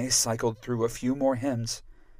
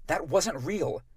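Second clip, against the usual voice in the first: mild sharp retort, a touch higher; snapped; 5 semitones higher, slower than usual. Acted. Narrator snapping at Rémi, mild retort. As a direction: snap back, understated. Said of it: "I snapped".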